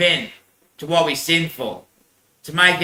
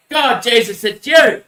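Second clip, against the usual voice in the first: excited cry; 4 semitones higher, slower than usual. Retold or imitated. Healed man cries out to Jesus.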